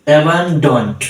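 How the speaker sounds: অ্যাবান্ডন্ট in two distinct syllables; two-syllable pronunciation. Shown as a demonstration. Teacher showing pupils how to pronounce অ্যাবান্ডন্ট, syllable by syllable. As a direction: say অ্যাবান্ডন্ট as অ্যাবান plus ডন্ট. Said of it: "দুই সিলেবলে আমরা এই শব্দটা উচ্চারণ করব".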